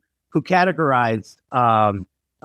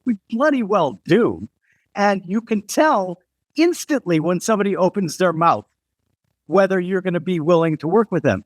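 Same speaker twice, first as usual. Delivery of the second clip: lightly voiced insistent Brit, higher; British designer; 5 semitones higher than usual. British designer insisting on class divides to an American, lightly imitated. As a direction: retell her retort with the pitch raised. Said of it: "She goes".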